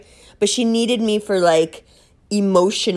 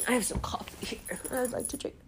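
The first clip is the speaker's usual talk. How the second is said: hushed aside about the coffee; a secret whispered aside; 3 semitones higher, 16 dB quieter, faster than usual. Real, not acted. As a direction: breathe it out under the breath. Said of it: "whispers aside".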